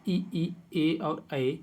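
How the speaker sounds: slow "ई, ई, ए और ऐ" said with the lips spread; धीरे-धीरे स्वर उच्चारण; vowels spelled slowly. Shown as a demonstration. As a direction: sound out "ई, ई, ए और ऐ" one at a time, slowly. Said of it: "ओंठ ... फैले से रहते हों".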